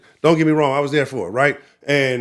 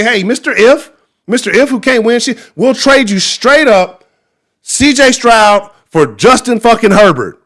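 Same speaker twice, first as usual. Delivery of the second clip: mock trade call; 6 semitones higher, 6 dB louder, slower than usual. Acted call to Chargers.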